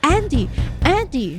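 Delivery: calling out high and loud, trapped; frantic shout for her husband; screaming a name. Acted. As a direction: yell for him through the locked door. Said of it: "She keeps screaming for Andrew".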